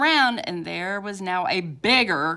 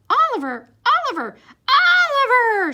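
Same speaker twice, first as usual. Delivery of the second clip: calling louder and higher each time; shouting a name; 9 dB louder than usual. Acted. Mom, Dad and Emily yelling for Oliver, louder and higher each time. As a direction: call up the stairs, rising to a yell. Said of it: "shouted Mom".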